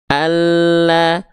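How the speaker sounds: ALLAH with the doubled L pressed briefly; L only pressed. Shown as a demonstration. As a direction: press the l in "Allah" and release without dragging. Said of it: "Cukup ditekan". ("Allah", lam cukup ditekan)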